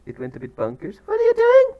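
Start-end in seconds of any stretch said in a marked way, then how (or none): 1.0-1.7 loud, very high scolding shout; real startled telling-off; exasperated shout. Real, not acted. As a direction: yell it at the misbehaving birds. Shouting at the turkeys.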